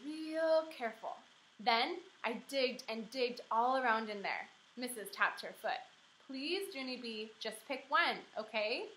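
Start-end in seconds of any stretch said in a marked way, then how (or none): 6.3-8.9 gently pleading teacher, a hint of strain; teacher coaxing a dawdling child; patient plea. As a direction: ask nicely but with thinning patience. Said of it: "she said".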